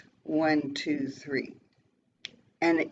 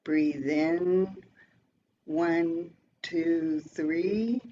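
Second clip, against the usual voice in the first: slow guided count; much slower than usual. Shown as a demonstration. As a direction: count the breath in slowly and gently. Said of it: "Here we go".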